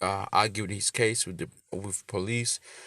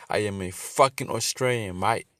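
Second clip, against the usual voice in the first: hammed-up Australian accent, a bit louder, leaning on mate; mock Aussie yell; 5 dB louder than usual. Preacher mocking the border worker, in a hammed-up Australian accent. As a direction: play the angry Aussie bloke for laughs in an Australian accent. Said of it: "Nah, I'm playing by".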